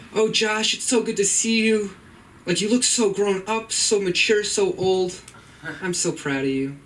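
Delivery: imitating his mom. Son imitating his proud mom, high and gushing. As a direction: coo like a doting mother. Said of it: "she could be like".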